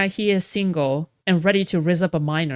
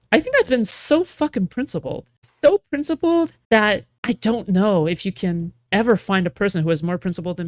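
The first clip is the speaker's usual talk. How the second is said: mock bragging; 2 semitones higher, 3 dB louder than usual. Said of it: "that's my bragging".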